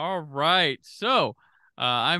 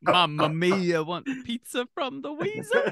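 put-on slow hammy Italian accent; jolly italian pizza chef; 7 semitones higher than usual. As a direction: lay the Italian accent on thick. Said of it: "Cast him as an Italian wise guy".

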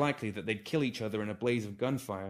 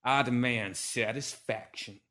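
slow formal demand; slower than usual. Acted. Formal challenge to duel.

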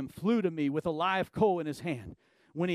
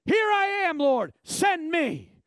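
high, loud and slowly drawn out; eager answer; 11 semitones higher, 6 dB louder, slower than usual. Acted. Isaiah rising to answer the Lord, loud and eager. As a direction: offer yourself boldly. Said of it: "he rose up and he said".

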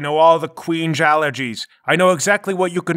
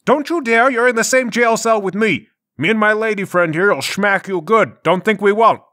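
threatening warning; 5 semitones higher, 4 dB louder than usual. Acted. Prisoner threatens blabbing cellmate.

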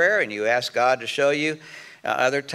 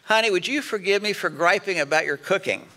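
bad apology; 4 semitones higher than usual. Shown as a demonstration. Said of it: "you can't say".

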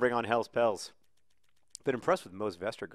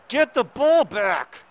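high, loud, drawn-out yell; screaming from the sidelines; 12 semitones higher, 10 dB louder, much slower than usual. Acted. Manager screaming at his players from the sidelines, strained yell. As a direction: yell it slowly, like a frantic manager. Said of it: "I am screaming my head off, saying".

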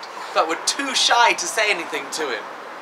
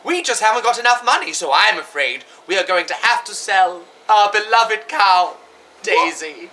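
lightly voiced panto dame, a bit louder and faster; pantomime dame mum; 4 dB louder than usual. Mum telling her son they must sell the cow, as a hint of a panto dame. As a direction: play the dame breaking bad news. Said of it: "shall I be the mum?".

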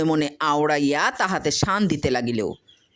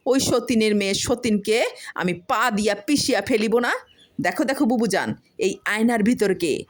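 aggrieved complaint; 5 semitones higher than usual. Acted. Wife complains to neighbour.

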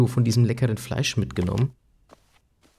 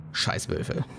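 whispered; 6 dB quieter than usual. Real, not acted. Grudge against wolves.

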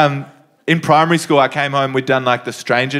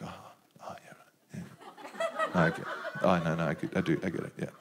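lightly voiced old man; 9 semitones lower, 16 dB quieter, much faster than usual. Old man getting the kiss cam.

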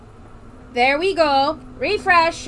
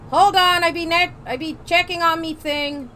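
put-on pirate accent; 4 semitones higher than usual. Streamer checking his bot in a light pirate accent. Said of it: "Do not think I'm doing this accent".

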